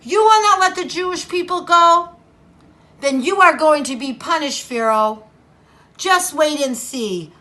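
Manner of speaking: mild warning; Moses warning. Acted. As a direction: Moses warning Pharaoh, mildly stern. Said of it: "Moses said".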